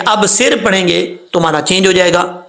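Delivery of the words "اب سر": "اب سر" with a thin, light s; saad misread as seen. Shown as a demonstration. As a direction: say "اب سر" quickly with a plain seen. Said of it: "جب صاد کو سین پڑھیں گے". ("اب سر" میں صاد کی جگہ باریک سین)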